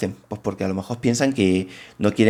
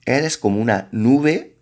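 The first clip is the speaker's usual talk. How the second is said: poem reading; slower than usual. Shown as a demonstration. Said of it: "Por ejemplo, en el poema de".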